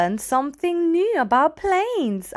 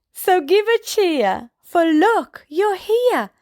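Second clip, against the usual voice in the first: excited; 7 semitones higher than usual. Acted. Cheering arrival.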